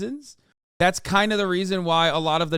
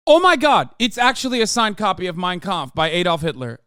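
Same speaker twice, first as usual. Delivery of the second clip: mock excitement; 4 dB louder than usual. Mocks a thrilled collector.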